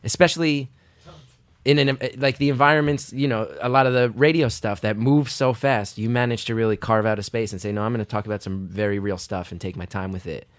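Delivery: talking round a bitten pen; biting down on a pen; pen in teeth. Real, not acted. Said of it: "the speaker has a pen in his mouth".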